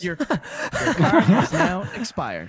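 mock automated message. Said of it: "no longer in service".

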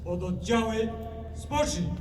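high, distant parade shout; drill sergeant. Real, not acted. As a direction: bark it from afar. Military parade, commander's commands. (musztrowa komenda)

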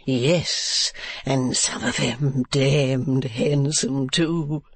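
slow, relishing drawl; Mr. Mantalini. Acted. Husband remarking on the young women, slow drawl. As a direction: stretch it out with relish. Husband leering about employees.

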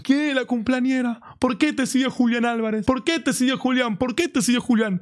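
high-pitched imitation of frantic shouting; mock desperate yelling. Friend grilling the birthday girl about Julián, mock desperate yelling. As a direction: mimic a friend pestering someone in desperate disbelief. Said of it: "estaba a los gritos".

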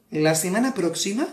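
mimicking a TV news presenter; lightly mocked news-show delivery; newsreader voice. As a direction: put on a newscaster voice. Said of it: "ponen otra voz".

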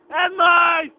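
loud hype shout. Real, not acted. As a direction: yell it out for the camera. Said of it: "Dá outro berro aí!". (grito de empolgação)

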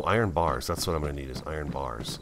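ordinary talk, nothing marked

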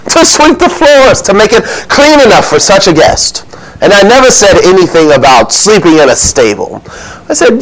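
lightly voiced innkeeper pleading his case; animated, self-justifying innkeeper's tale; flustered innkeeper. Innkeeper giving Luke his testimony on the birth, defensive.

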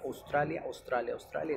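"Australia" as "Ostralia"; O at the start. Shown as a demonstration. Teacher showing his old mistake, O-initial "Ostralia". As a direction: replace the Au of "Australia" with a single O. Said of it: "empezaba con la O".

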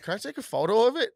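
a hint of a pushy older man; retelling the creep's photo request, mocking; mock creepy stranger.

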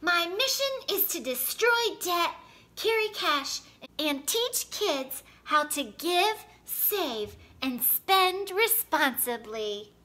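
mock heroic announcer tone; boy imitating his TV hero for friends; Dollar Bill voice. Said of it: "in his best Dollar Bill voice".

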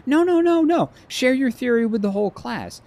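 high, loud mocking teacher voice. Friend insisting he share with the class, high mock teacher voice. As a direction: boom it like a smug teacher calling on a kid. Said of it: "He's like".

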